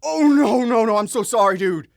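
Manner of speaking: high, loud frantic sorry; panicked apology. Retold or imitated. To the stranger whose joint he dropped, frantic high apology. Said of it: "That was, like, verbatim how I sounded".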